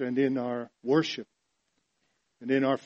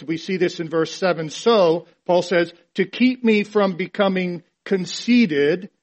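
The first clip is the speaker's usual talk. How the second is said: raised, emphatic sermon delivery; forceful preaching; 4 semitones higher, 5 dB louder than usual. Real, not acted. Preacher reading Paul's thorn passage to congregation, forceful. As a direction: press each phrase home with a louder voice.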